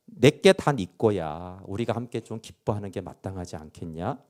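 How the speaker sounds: father gently invites the son to rejoice; gentle father. Retold or imitated. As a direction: coax him kindly, taking your time. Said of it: "온유하고 짧습니다".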